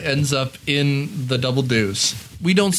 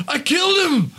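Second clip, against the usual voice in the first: lightly voiced Gazzara; 10 semitones higher than usual. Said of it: "And he goes".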